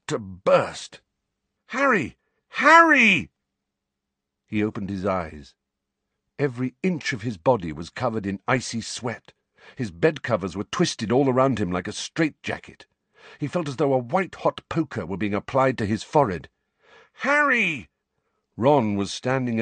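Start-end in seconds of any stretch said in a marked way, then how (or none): 1.7-2.2 a high, urgent first call of his name; first of two calls. Acted. Ron wakes Harry in fright. 2.5-3.3 higher, louder second shout of his name; the call rising to a shout. Acted. Ron wakes Harry in fright. 17.2-17.9 high, urgent call of his name; frightened friend calling out. Acted. Ron wakes Harry in fright.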